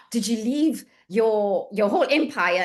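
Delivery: breathless, drawn-out excited question. Retold or imitated. Physio excitedly asking her departing mentor, retold. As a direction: gasp first, then stretch it out in excitement. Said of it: "I was, like, so excited".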